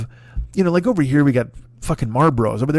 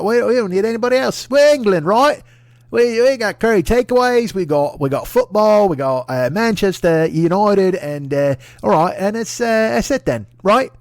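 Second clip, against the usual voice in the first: high, loud blustery English politician, slowing into a final bark; mock Boris Johnson rant; 7 semitones higher, 4 dB louder, slower than usual. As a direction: bluster it up like a pompous PM ending on a grand slow decree. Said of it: "he's like".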